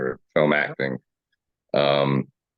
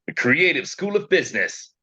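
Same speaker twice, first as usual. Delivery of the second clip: higher-pitched commercial tagline; ad voiceover read; 9 semitones higher than usual. Acted. Actor recalls the commercial he voiced, ad voiceover read. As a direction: deliver it as a business school tagline. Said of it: "how did it go".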